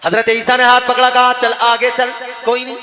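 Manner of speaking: loud, ringing sermon storytelling; full-voiced preacher narration; preaching. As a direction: preach the tale out to the crowd. Preacher tells river miracle.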